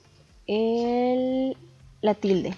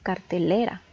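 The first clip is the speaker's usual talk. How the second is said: "cartelera" con la fuerza en LE; énfasis en LE. Shown as a demonstration. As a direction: marca la sílaba LE de "cartelera". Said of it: "la que tiene más entonación es le". (pronuncia "cartelera" destacando la penúltima sílaba, LE)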